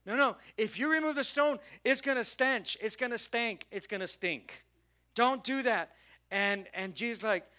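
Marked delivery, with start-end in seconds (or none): 0.0-6.0 high, alarmed protest from a loud start; acted freaking out. Sisters objecting at the tomb, hammed-up freaking out. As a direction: panic and try to stop them. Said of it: "freaking out".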